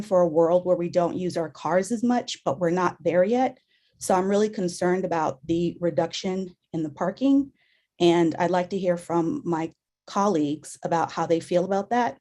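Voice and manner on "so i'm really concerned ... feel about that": hoarse, failing voice; strained hoarse voice; losing voice. Real, not acted. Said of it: "I seem to be losing my voice".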